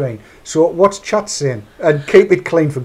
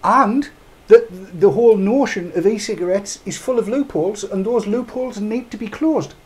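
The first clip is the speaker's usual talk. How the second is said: mock Glenys Wilmot quote; 4 semitones higher than usual. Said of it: "That's Glenys Wilmot".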